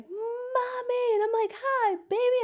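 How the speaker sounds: put-on high, light child-like greeting; sweet reunion. Greeting her little daughter at the airport, high and sweet.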